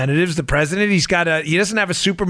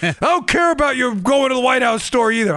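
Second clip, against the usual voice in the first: whiny mock gripe, pitched up; upset emailer; 5 semitones higher than usual. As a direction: imitate a disgruntled listener taking a little shot. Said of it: "he throws in a little shot".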